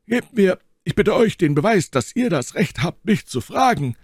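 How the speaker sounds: a touch of anger, high and loud; rising annoyance. A narrator's reading. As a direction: push back on the questioning. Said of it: "den dieses Verhör zu erzürnen begann".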